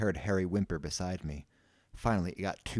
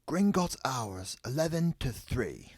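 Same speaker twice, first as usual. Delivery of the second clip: slow, raised, drawn-out reading; reading a notice aloud; 6 semitones higher, slower than usual. A narrator's reading. Ron reading the bank's door notice, slow. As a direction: sound it out slowly at high pitch. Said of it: "Ron read from a notice".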